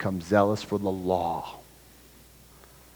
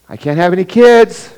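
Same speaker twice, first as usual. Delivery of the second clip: put-on higher, louder anxious old woman; Sarah speaking; 8 semitones higher, 12 dB louder than usual. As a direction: voice an old woman pleading she can't have children. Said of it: "she says".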